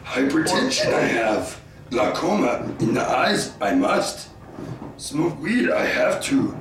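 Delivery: lightly done Yoda with backwards phrasing; mock wise old Jedi. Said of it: "You sound like Marge Simpson".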